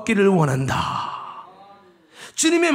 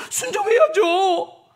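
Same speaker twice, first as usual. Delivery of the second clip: drawn-out vow; 8 semitones higher, much slower than usual. Pretend. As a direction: drag out the vow to obey. Pretend believer vows obedience.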